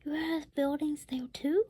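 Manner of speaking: breathless whispered question; gasped whisper. Acted. Holden amazed at the tiny town, gasped whisper. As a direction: gasp it out in a whisper. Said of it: "Holden gasped".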